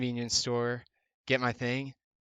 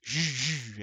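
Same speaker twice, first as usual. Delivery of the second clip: buzzing spelt-out whir of tires; imitated tire noise. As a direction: imitate tires pushing through snow. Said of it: "my tires are like".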